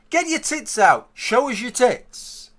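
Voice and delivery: imitated catcall, high and loud; acted shout. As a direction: shout it high across the road, stretching the last words. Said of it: "the lesbian next to me shouts out".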